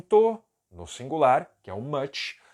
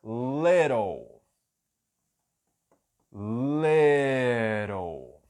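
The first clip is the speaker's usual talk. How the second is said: whispered model; 2 semitones lower, much slower than usual. Shown as a demonstration. Teacher whispering "little" to show its sounds. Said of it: "eu vou usar a palavra little".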